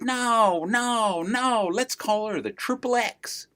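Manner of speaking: a hint of a bossy baby brother; little brother Joe. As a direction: youngest brother cutting in on the naming. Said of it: "little baby Joe, he said".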